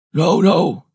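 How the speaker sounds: high, loud sailor's protest; hoarse exclamation. A narrator's reading. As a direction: exclaim it from the helm, pitch leaping. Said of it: "exclaimed the hoarse voice".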